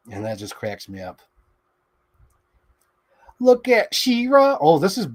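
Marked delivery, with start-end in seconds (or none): 3.4-5.1 excited. Real, not acted. Excited at toy figure.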